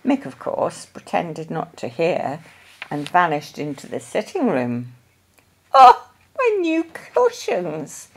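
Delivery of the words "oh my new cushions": high, slow cry of dismay. A narrator's reading. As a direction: gasp it out, worried for the cushions. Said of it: "cried Missus Brown".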